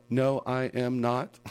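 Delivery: slow, high, over-separated fake British words; stilted robot-like British accent; robotic fake British. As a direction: enunciate like a robot faking British. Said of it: "sounded like a damn robot".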